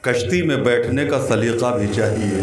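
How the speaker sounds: measured Urdu verse recitation; शेर-पाठ. Acted. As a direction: recite the couplet phrase by phrase with pauses. शेर पढ़ता है. (ठहर-ठहर कर शेर पढ़ना)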